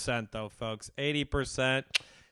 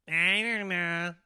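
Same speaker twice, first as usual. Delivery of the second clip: slow, higher mock Asian accent; 6 semitones higher, slower than usual. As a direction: imitate a doctor with an Asian accent. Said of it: "Is that your Asian voice?".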